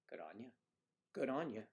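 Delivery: trying out an Australian accent; tentative Australian imitation. Shown as a demonstration. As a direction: practise an Aussie greeting. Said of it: "Yeah, that was Australia".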